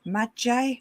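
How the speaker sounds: Magi said as MAH-jye, asking; another pronunciation. Shown as a demonstration. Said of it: "flummoxed by how to pronounce".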